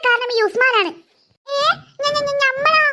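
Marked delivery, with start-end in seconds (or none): 1.5-2.8 flustered stammer. Acted. Usman caught, stammers accused.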